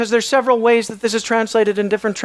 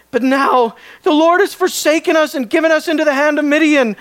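indignant complaint; 4 semitones higher than usual. Retold or imitated. Gideon's bitter complaint voiced.

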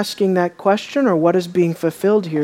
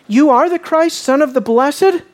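higher-pitched, measured accusation ending on a rise; careful, calculated challenge; 5 semitones higher than usual. Acted. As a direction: put the charge to him with calculation. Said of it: "carefully, calculatedly".

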